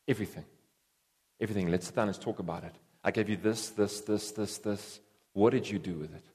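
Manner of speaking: a hint of a judging master; solemn God asking. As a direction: ask it low and searching, like a master settling accounts. Voicing God demanding an account.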